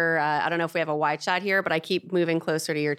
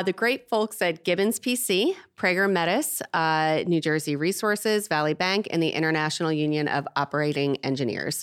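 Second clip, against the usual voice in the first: infomercial read. Acted. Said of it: "I sound like a real infomercial now".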